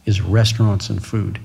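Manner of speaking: a mild mock of the uncle's anger; a hint of an exasperated uncle scolding; retold angry uncle. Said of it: "he got even madder at me".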